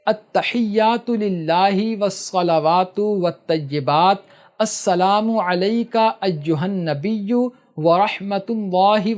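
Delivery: slow, measured Arabic recitation of the Tashahhud; slow prayer recitation. Shown as a demonstration. Teacher demonstrates the Tashahhud, slow careful recitation. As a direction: recite deliberately so they can follow. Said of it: "سنو غور سے".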